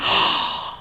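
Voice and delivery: sharp unvoiced gasp of fright; scared gasp. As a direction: gasp like someone suddenly frightened. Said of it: "she was so scared".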